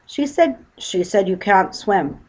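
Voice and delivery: father yelling across water. Acted. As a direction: shout the news to the bear. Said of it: "yelled Mister Brown".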